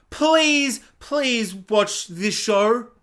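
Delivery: drawn-out, hammed-up begging; mock pleading. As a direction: stretch out a desperate plea. Characters begging viewers.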